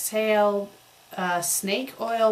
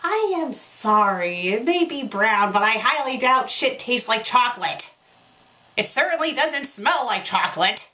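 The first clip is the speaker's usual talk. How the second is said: exasperated outburst; 3 semitones higher, 5 dB louder than usual. Real, not acted. Reader protests the chocolate line, loud and exasperated. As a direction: protest loudly in disbelief. Incredulous comment on the fanfic.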